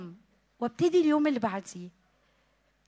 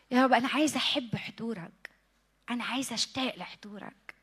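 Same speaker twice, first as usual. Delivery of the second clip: whispered prayer; 6 dB quieter than usual. Real, not acted. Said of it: "whispered prayer".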